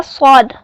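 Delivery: स्वाद said full and heavy, with a thickened voice; heavy full sound. Shown as a demonstration. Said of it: "आवाज़ को थोड़ा भारी करके". (स्वाद पुर करके)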